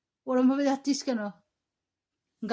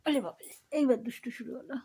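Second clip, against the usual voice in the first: whisper; 4 dB quieter than usual. Real, not acted. Whispering near sleeping baby. (ফিসফিস করে)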